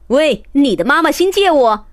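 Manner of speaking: snatch it and shout as you run; grabbing call. Acted. 阿志伸手就抢. (阿志抢东西时大声快喊)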